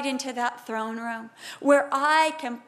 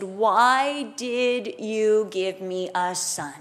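slow, drawn-out lament; mild anguish, every word stretched; anguished plea; 3 semitones lower, much slower than usual. Acted. Grieving mother fallen at Elisha's feet, slow anguished plea. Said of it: "falls on her face and she said".

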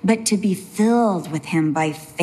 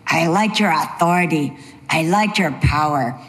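imitating an admiring fan; 4 semitones lower than usual. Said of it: "my dad has this, you know".

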